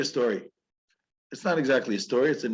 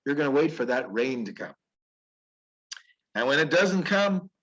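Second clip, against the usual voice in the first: God speaking; 5 semitones higher than usual. Retold or imitated.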